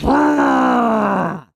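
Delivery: shouted engine roar, high and loud; car engine roar. Retold or imitated. Muscle car in the street, shouted engine roar. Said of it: "muscle car in the street that goes".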